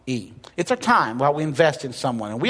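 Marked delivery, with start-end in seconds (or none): 0.1-0.3 letter by letter, slow and a bit softer; slow deliberate spelling; spelled out slowly. Shown as a demonstration. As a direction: spell it out one letter at a time. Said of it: "the way you spell love is".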